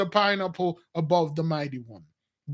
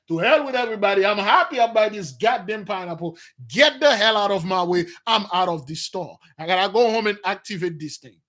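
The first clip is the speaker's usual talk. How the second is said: mock loud talk; 3 dB louder than usual. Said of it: "talk really loud in the store".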